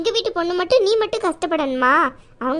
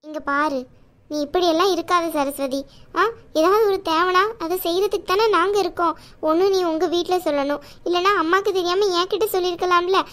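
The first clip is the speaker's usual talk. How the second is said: caring aunt voice. Acted. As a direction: play the protective chithi, chiding but kind. Aunt voice again.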